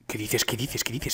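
low, soft repeated question; hushed disbelief. Real, not acted. Muttered disbelief at the game.

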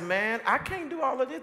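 retold exasperated objection; overwhelmed protest. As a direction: protest the workload, voice climbing. Acted protest to his friend.

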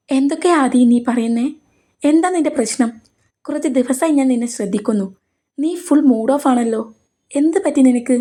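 concerned man pushing for an answer; worried questioning. Acted. Karthi presses upset Aadi about her mood, worried.

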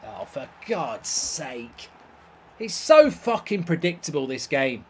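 normal talking voice

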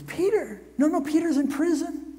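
put-on very high girl's voice, quick no-no; girl at the door insisting Peter is in prison; Rhoda disbelieving. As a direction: dismiss him, Peter can't be here. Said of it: "And she goes".

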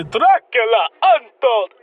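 slow, mock Transylvanian accent on "Dracula Untold". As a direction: ham up a Transylvanian vampire accent, slowly. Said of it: "in Transylvania, they say".

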